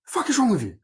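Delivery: high, loud mock yell of an angry mum. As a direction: shriek it like mum dragging him off. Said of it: "then she's like".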